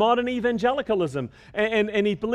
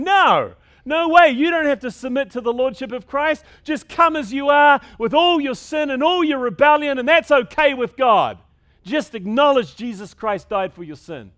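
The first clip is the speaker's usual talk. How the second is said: mocking opponents; 4 semitones higher, 6 dB louder than usual. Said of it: "whole group of people rising up and saying".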